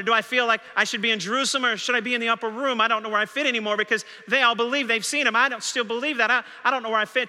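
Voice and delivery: anxious Thomas. Acted. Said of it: "Thomas had to wonder".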